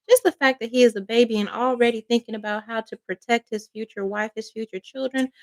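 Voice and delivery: choked-up voice, fading out. Real, not acted. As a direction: speak through a tight, choked throat. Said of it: "I'm getting choked up".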